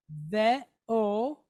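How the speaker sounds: "ve o" in two parts, ending on a long O; O sound. Shown as a demonstration. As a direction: say "ve o" with a clear, separate O. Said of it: "of an O".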